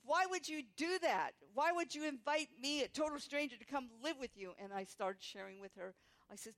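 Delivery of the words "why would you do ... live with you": high, loud, disbelieving questions; astonished questions. Retold or imitated. Prostitute questioning the stranger's offer, high disbelief. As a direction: pour out the astonished why.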